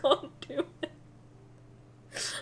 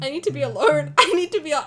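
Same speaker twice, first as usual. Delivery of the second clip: laughing; 2 semitones higher, 7 dB louder, faster than usual. Real, not acted. Repeated, louder, laughing.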